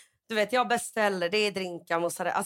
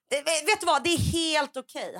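retold panicked politeness; 7 semitones higher than usual. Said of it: "då får jag sån panik".

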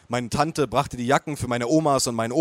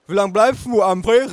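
mother calls across the table, higher and louder; calling out; 8 semitones higher, 7 dB louder than usual. Acted. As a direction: call to your child down the table. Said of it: "rief meine Mutter".

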